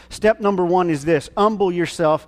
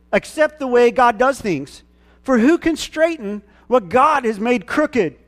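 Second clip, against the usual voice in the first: scripture read again; 6 semitones higher than usual. Shown as a demonstration. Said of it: "I'm gonna read it again".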